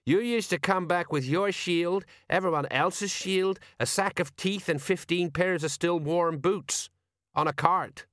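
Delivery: high, slow character voice listing misdeeds; exasperated sergeant. Acted. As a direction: recite a mate's crimes with weary reproach.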